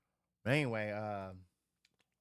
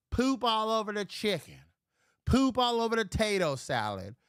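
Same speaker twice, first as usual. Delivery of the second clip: higher and louder, hammering each word; loud disgusted rant; 8 semitones higher, 5 dB louder than usual. Real, not acted. Disgusted at a fly-covered picnic table, loud ranting. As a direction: yell it in disgust at the food.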